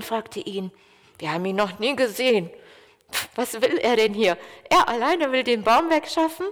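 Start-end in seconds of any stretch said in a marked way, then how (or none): 1.2-6.5 mocking. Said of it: "über ihn zu spotten und zu lachen".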